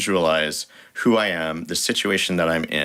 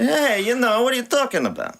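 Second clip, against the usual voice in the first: mock indignant. Mock indignant reply to teasing.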